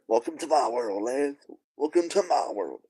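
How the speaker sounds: hamming up a grand welcome to the lads; mock announcer welcome. Greeting the lads in a lightly mocking put-on voice. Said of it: "Welcome to my world" is crazy".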